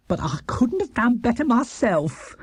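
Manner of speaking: breathy, hushed admission; whispered praise. Acted. Mrs Bird grudgingly praising Paddington's dish, whispered and hushed. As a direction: let the compliment slip out in a hush.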